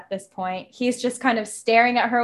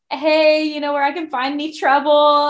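flirty greeting; 4 semitones higher than usual. Retold or imitated. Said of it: "super cute and flirty and friendly".

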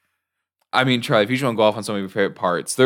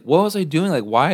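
dazed Sarah; 4 semitones higher than usual. Retold or imitated. Sarah dazed in retold scene.

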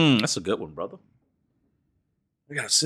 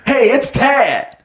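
slow mock host intro; 8 semitones higher, much slower than usual. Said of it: "mock show intro as Tad".

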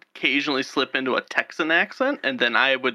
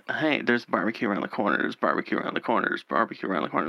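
Texan drawl; 4 semitones lower, 3 dB quieter, faster than usual. Retold or imitated. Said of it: "Texan Southern drawl".

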